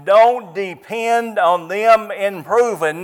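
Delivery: slow, firm stress on "Don't"; emphatic repeat. Shown as a demonstration. Preacher repeating his point, stressing "Don't". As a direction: lean into "Don't" and say it slowly. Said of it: "I say this very quickly and just as loud".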